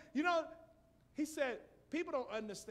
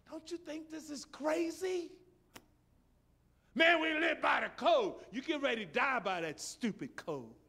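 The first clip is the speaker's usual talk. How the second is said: retold rebuke; 8 semitones higher, 8 dB louder than usual. Preacher retells scolding a friend.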